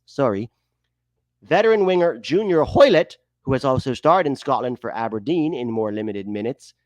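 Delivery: mock Canadian accent that slips into Irish; put-on Irish-Canadian accent. Host reading player news, hammed-up Irish-Canadian accent. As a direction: read it as a lilting Irish Canadian. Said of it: "pretending to be Irish Canadian".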